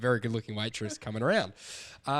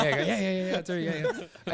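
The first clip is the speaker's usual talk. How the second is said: mock eagerness; 6 semitones higher than usual. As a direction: imitate yourself agreeing far too keenly. Acts out his eager agreement.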